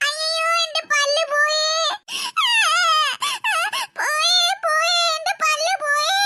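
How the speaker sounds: slow wailing over a broken tooth; acted crying. Big sister wails to little sister about her tooth, crying. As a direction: whimper it out like a hurt child. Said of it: "കരയില്ല ചേച്ചി".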